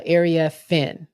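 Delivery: "Area Finn" with weight on FINN; demonstrated name pronunciation. Shown as a demonstration. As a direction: say "Area Finn" as air-ee-uh-FIN. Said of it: "where you put the emphasis on".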